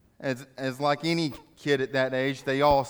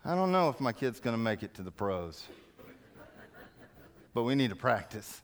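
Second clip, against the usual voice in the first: inner thought; 4 semitones lower, 6 dB quieter than usual. Retold or imitated. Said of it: "the parents start to think".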